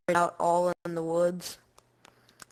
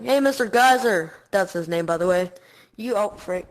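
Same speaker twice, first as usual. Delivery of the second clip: sassy insult. Retold or imitated. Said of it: "I was like".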